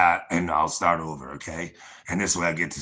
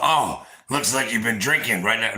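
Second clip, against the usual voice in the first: mildly raised, higher mocking quote; retold loud accusation; 4 semitones higher, 4 dB louder than usual. Man quoting his rival on the porch, loud retold accusation. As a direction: mimic someone running his mouth. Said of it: "real loud".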